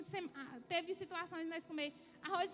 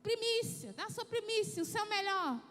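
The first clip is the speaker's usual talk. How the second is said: louder, higher preacher's call; preaching bishop; 4 semitones higher, 6 dB louder than usual. Retold or imitated. Bishop calling for offerings, loud and urging. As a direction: urge the crowd like a pulpit preacher.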